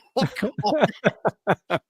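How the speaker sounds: amused laugh at the caller's rant; real laughter. Real, not acted.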